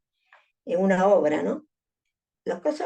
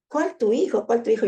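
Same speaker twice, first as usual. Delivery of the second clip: grito recreado; 3 semitones higher than usual. Retold or imitated. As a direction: retell an urgent shouted question without fully yelling. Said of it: "yo le gritaba a mi esposo". (grito contenido al recordar)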